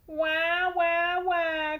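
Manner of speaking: mock baby wail; baby crying. A narrator's reading. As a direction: whine like babies. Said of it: "cried the baby teeth".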